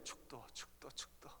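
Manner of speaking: breathy echo of a nagging thought; haunted whisper. Retold or imitated. Pastor whispering the word that haunted him all week. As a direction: whisper it unvoiced, like a word stuck in your head. Word echoing in his head.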